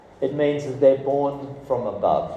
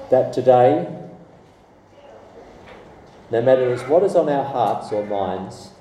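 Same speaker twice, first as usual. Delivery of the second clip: measured prayer, a little lowered; 3 semitones lower than usual. Real, not acted. Preacher leading the congregation to pray to Heavenly Father, prayerful. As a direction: lead the room gently in prayer.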